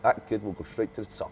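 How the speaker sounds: bad London accent with a laugh. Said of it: "Do it in a London accent, go".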